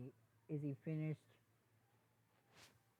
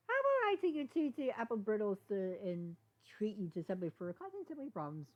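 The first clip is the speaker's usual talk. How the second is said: much higher, louder bright offer; happier; 5 semitones higher, 4 dB louder than usual. Acted. Izzy cheerfully offers to treat Sunny, happier. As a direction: perk up with the offer. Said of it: "became a bit happier".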